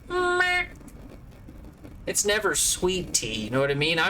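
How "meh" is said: mock disappointment. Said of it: "and it's like".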